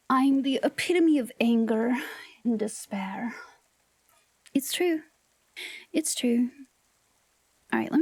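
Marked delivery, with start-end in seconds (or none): 0.1-6.5 whispered mock menace, voice dropping away at the end; mock evil whisper. To chat, jokingly claiming to be evil, in a mock sinister whisper. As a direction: hiss it like a pretend villain.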